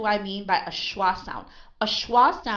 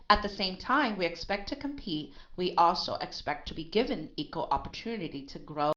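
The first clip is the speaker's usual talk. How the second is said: measured reading, voice dipping on expect; lowered key words. Shown as a demonstration. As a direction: read aloud, keeping expect and aspect unemphasized. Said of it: "the tone of voice is lower".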